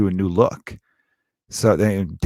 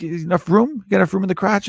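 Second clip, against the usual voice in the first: prying mom; 8 semitones higher than usual. Retold or imitated. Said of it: "kinda like".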